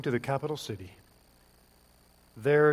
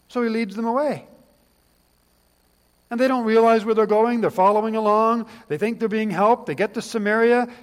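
preaching; 6 semitones higher, 8 dB louder than usual. Acted. Preaching builds to a peak.

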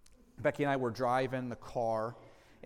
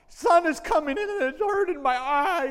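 put-on upset child; 12 semitones higher, 9 dB louder than usual. Five-year-old nephew answers upset.

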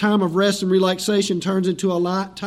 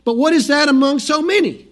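higher-pitched, put-on Irish accent; 5 semitones higher than usual. Preacher voicing Andrew reporting the loaves to Jesus, Irish accent. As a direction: play the disciple with a lilting Irish accent. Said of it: "hear him in his best Irish accent".

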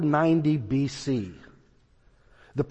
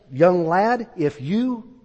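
angry threat; 4 semitones higher, 4 dB louder, slower than usual. Retold or imitated. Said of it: "now he's really getting irritated".

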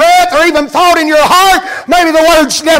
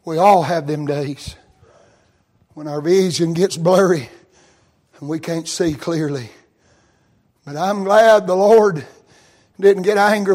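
hushed preaching; 10 semitones lower, 8 dB quieter than usual. Real, not acted. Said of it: "sermon drops to a hush".

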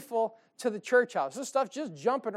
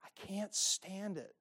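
exasperated husband; 10 dB quieter, slower than usual. Retold or imitated. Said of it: "you're gonna be like".

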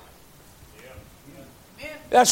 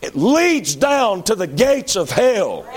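fiery slow preacher's cry; preaching shout; 5 semitones higher, slower than usual. Real, not acted. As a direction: drag it out and shout it at them. Preacher warns of hell.

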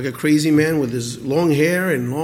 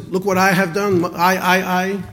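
louder, higher hammed-up boasting king; preacher mocking the king's bragging, louder; mock proud boast; 4 semitones higher, 4 dB louder than usual. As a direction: puff up and brag about Look what I have done. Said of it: "you know how he talked?".

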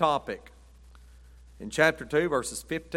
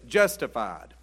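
slow saying; much slower than usual. Shown as a demonstration. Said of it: "The old saying is this".

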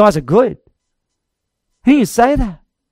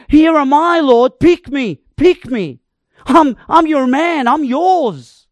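eager volunteer; 3 semitones higher than usual. Acted. Isaiah eagerly volunteering to God.

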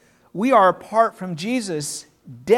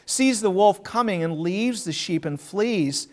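firm, raised reading voice; solemn Bible reading, louder than the talk; scripture reading; 4 dB louder than usual. Acted. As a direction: proclaim the passage to the congregation. Reads scripture aloud.

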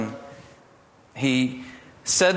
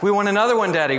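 put-on much higher and louder excited children; pleading children clamoring for more story; eager kids begging; 10 semitones higher, 6 dB louder, much faster than usual. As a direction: beg for more like kids stalling bedtime. Kids begging for another chapter.

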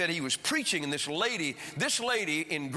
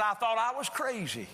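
higher-pitched insistent retelling; emphatic repeat; 5 semitones higher than usual. Retold or imitated. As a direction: say it again so he gets it. Repeated after he says "What?.

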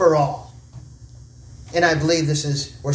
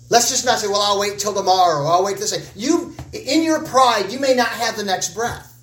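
urgent warning; 4 semitones higher than usual. Real, not acted.

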